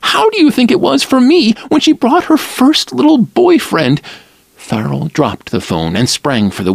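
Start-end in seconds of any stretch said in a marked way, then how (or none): 0.0-4.0 high plaintive mother's wail, a bit louder; a mild wail of old hurt. A narrator's reading. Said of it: "Lila's mother wailed".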